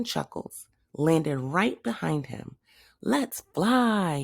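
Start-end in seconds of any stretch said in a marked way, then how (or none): 3.0-4.2 higher thrilled holler; excited hamster hollering. Acted. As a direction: shout it as the car takes off. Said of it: "he hollered".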